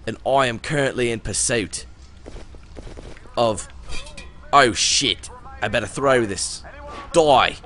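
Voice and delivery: put-on Aussie accent, slipping at times; Australian accent. Player commenting on his zombie fight as Ryder White, Australian accent. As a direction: play the zombie fighter with a rough attempt at Australian. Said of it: "I'm mixing English and Australian".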